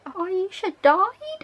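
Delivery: high, slow disbelieving echo; stunned rising question; surprised. Real, not acted. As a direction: drag it out in shock. Shocked at recap news.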